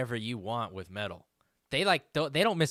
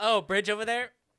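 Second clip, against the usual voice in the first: put-on sassy supervillain voice, higher; 8 semitones higher than usual. Acting out how the villain would casually move a bridge: imitating sassy Magneto. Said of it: "he's just being sassy".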